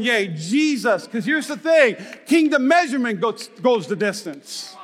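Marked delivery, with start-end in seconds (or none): 0.0-1.1 slow praise. Retold or imitated. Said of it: "I'm going".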